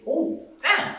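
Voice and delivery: surprised. Retold or imitated. Seeing depth chart.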